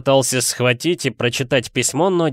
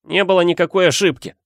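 high, heated contradiction; Harry, angry; 7 semitones higher, 3 dB louder than usual. A narrator's reading. Boy disputing uncle's excuse, high and cross. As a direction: argue back, voice pitched up. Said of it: "сердито сказал Гарри".

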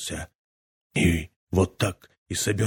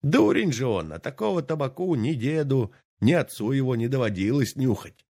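mocking old man; 4 semitones higher, faster than usual. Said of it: "продолжал он".

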